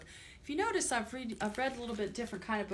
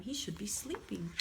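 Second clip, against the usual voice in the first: whisper; 6 dB quieter than usual. Real, not acted. Storyteller whispering to children about the sleepy boy, whispered. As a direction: breathe it, no voice. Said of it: "whispered aside about sleepy boy".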